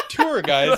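"Tour guides" as TOOR guides, laughing; amused "Tour guides", Tour rhyming with poor; corrected pronunciation. Shown as a demonstration. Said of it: "he says it differently".

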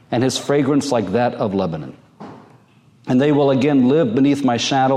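measured, lifted reading voice; scripture reading. Acted. Pastor reading Hosea to the congregation, solemn scripture reading.

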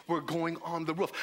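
firm, steady insistence; insistent leader. Acted. Group leader overrules his balking friend, insistent. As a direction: overrule the objection without raising your voice.

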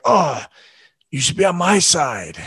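mildly put-out retold complaint; a little annoyed. Husband to wife who sided with their son, mildly annoyed. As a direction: protest lightly, as if let down by an ally. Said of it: "I was a little annoyed".

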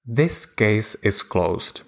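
slow, with a falling finish on closed; judge's verdict. Shown as a demonstration. Coach demonstrates a judge's final verdict, slow and falling. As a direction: deliver it like a judge closing the case. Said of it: "Imagine a judge saying".

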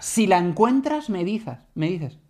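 put-on slow, eerie old lady fading out; a slow, eerie old lady trailing off; creepy old lady. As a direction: stretch the words, fading away. Retelling lady's creepy line.

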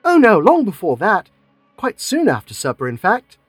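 hurried, slightly alarmed denial; quick alarmed reply. Acted. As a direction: cover yourself quickly, a touch rattled. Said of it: "she replied quickly".

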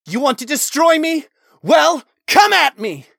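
high, loud furious shout; screamed challenge. A narrator's reading. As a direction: scream defiance into the sky. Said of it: "Talon screamed out".

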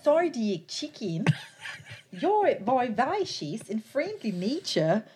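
laughing. Real, not acted. Reading while laughing.

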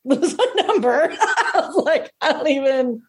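high laughing words. Retold or imitated. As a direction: laugh through the line. Laughing disbelief.

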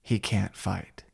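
lightly voiced sensei, slow and grim; quoting Terry Silver. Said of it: "we hear from the movie".

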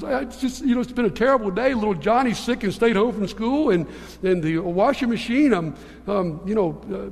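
mock-weepy, stammering wail building in pitch; tearful wife. Wife tells her husband about her terrible day, mock tearful. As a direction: imitate an overwhelmed wife falling apart, halting on repeated words.

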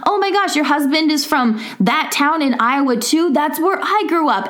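high, bubbly friendly chatter; chatty dentist. Retold or imitated. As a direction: gush like a friendly small-town dentist. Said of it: "He was like".

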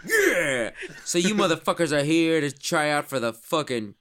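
swaggering team captain hyping the recruits; Zach Smith. Acted. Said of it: "not Jay Finn, Zach Smith, can you do that for us?".

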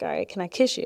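imitating his low, sexy ask; said real low. Retelling her date asking to kiss her, soft and low. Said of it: "you even said it, like, real low".

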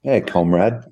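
put-on a light, jokey Russian accent on a greeting; mock Russian accent. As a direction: toss off a hint of a Russian accent. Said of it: "learning the Russian accent".

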